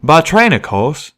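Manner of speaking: a train pony's homespun drawl; folksy train pony. Acted. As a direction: explain like a simple hick worker.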